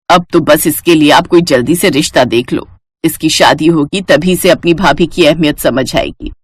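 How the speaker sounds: lightly voiced exasperated mother; fed-up mother. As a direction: confide a firm decision to the aunt. Mother speaks to the aunt.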